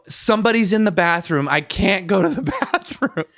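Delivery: high-pitched whiny complaint breaking into a laugh; mock-distressed excuse to an angry wife; retold protest. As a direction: protest helplessly, amused at yourself. Retold protest back to yelling wife.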